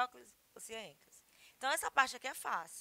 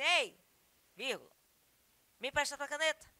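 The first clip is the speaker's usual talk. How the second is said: everyday "Ei, me empresta tua caneta", a bit louder; casual request; 4 semitones higher, 5 dB louder, faster than usual. Shown as a demonstration. Teacher to students, acting casual speech, lightly voiced. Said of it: "vai pedir uma caneta emprestada".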